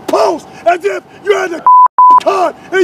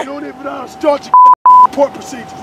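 angry drill sergeant; 5 dB louder than usual. Acted. Instructor scolding recruit.

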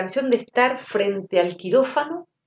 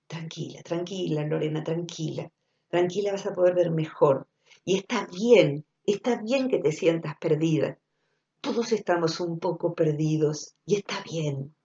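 soft, much quieter, unhurried calm; gentle reassurance; 4 dB quieter than usual. Retold or imitated. Comforting Lorena who feels lost, softly reassuring. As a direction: soothe a frightened friend. Gently soothing a frightened self.

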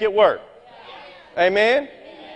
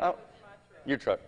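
ordinary delivery

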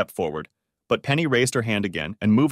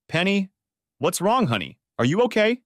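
worried; 10 semitones higher than usual. A narrator's reading. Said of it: "a mask of concern".

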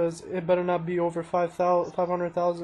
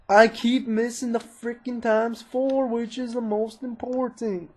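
odd put-on voice; 4 semitones higher than usual. Real, not acted. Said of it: "I don't know why I'm talking like this".

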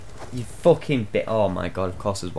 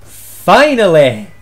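relieved cheer; 3 semitones higher, 7 dB louder, much slower than usual. Real, not acted. Finally winning.

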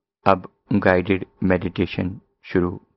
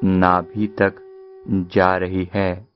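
measured meditation guide, long pauses between phrases; guided meditation; 3 dB quieter than usual. Acted. Teacher guiding listeners to follow the breath in and out, unhurried guided meditation.

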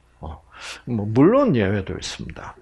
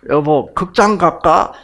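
bright, louder wife's invitation; imitating a wife's lively suggestion; cheery wife; 5 semitones higher, 6 dB louder than usual. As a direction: play the wife breezily asking to go out.

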